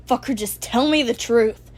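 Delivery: loud, snarling demand; angry shout. Acted. Bakugo yelling at Izuku to tell the truth, angry shout. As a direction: bark it right in his face.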